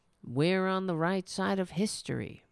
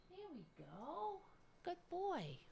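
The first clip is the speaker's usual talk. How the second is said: high, soft cooing praise; praising the cat; 13 semitones higher, 17 dB quieter than usual. Real, not acted. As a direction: coo praise to a good pet.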